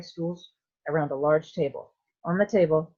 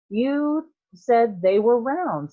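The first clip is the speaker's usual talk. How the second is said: accusing; 7 semitones higher, 6 dB louder, much slower than usual. A narrator's reading. Veruca accusing Wonka.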